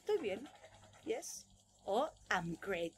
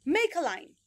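loud, higher "Make a line"; exaggerated classroom command; 6 semitones higher, 8 dB louder, slower than usual. Shown as a demonstration. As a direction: call it out to kids. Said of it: "lo exagerada que soy".

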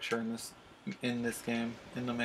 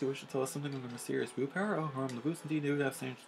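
a theatrical medium's voice, a little higher; mystic fortune teller; 5 semitones higher than usual. Acted. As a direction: commune with the spirits in a theatrical way.

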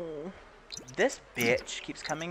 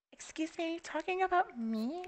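much higher, softer prissy offended voice; offended neighbour; 7 dB quieter than usual. Pretend. Neighbour overhearing the insult, high and affronted. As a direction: play the insulted woman clutching her pearls. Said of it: "she'll be like".

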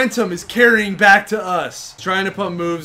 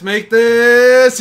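urgent plea; 3 semitones higher, 6 dB louder than usual. Real, not acted. Free throw pleading.

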